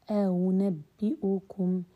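أنبئكم very slow, the hamza before kum softened; teacher modelling the eased hamza; eased second hamza. Shown as a demonstration. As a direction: draw out أنبئكم without a full glottal stop. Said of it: "لم أحقق الهمزة الثانية".

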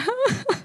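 short, high, soft mock sob; imitated crying. Speaker retelling how her laughing turned, mock crying. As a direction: break into a brief pretend cry. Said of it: "then I started crying".

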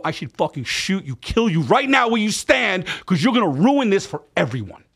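retold high-pitched furious tirade; incredulous, emphatic rant; outraged disbelief. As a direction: lay into a friend in stunned outrage, voice pitched right up. Acted threat in the same quarrel.

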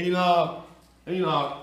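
Enoch said firmly as EE-nock; the name Enoch pronounced clearly, EE-nock; correct pronunciation. Shown as a demonstration. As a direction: say Enoch with a long ee, landing on the first syllable. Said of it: "right pronunciation of that too".

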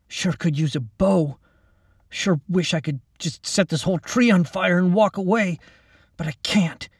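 a hint of a young man grumbling; wistful young Mac. Mac's character voice.

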